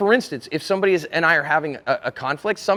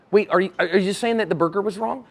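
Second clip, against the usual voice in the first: earnest, puzzled check-back; honestly checking what you heard, voice rising at the end; tentative clarifying question; seeking to understand; 2 semitones higher than usual. Acted. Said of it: "I'm seeking knowledge".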